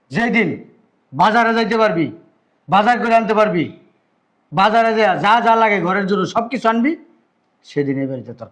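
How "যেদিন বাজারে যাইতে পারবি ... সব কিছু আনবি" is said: higher, louder, slow scolding shout; angry scolding. Acted. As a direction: hammer each condition home, furious. Elder brother scolding lazy brother. (রেগে ধীরে ধমক)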